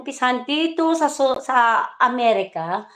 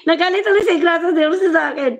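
mocking laugh; 7 semitones higher, 5 dB louder, much faster than usual. Real, not acted. Mocking laugh at angry rival.

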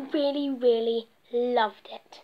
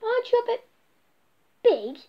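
Amelia's voice; 9 semitones higher, faster than usual. Acted. Amelia questions the strange bee.

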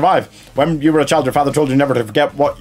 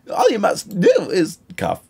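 ghostly voice; 5 semitones higher, slower than usual. Acted. Ghost delivers prophecy.

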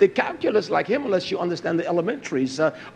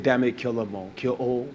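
low grim command; 6 semitones lower, 7 dB quieter than usual. Acted. Same command repeated low.

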